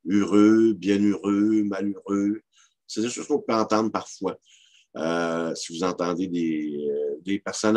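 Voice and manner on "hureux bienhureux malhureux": "heureux" said as "hureux"; French u in "bienheureux", "malheureux"; old bel usage pronunciation. Shown as a demonstration. Lecturer adding examples, "heureux" as "hureux". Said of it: "on retrouvait aussi".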